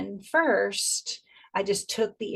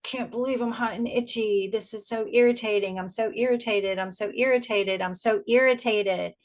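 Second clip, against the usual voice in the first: irritated complaining; 3 semitones higher than usual. Acted. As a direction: dwell on the irritation, mildly exaggerated. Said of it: "if we build the mindset of".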